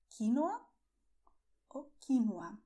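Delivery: "quinoa" as KEE-no-a; stress on first syllable. Shown as a demonstration. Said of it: "You can pronounce it this way".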